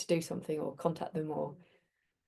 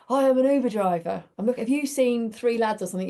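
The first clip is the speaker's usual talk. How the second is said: louder, raised voice of a driver calling from his car; Uber driver asking; 4 semitones higher, 6 dB louder than usual. Retold or imitated. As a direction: call out the question across to them. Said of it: "he goes".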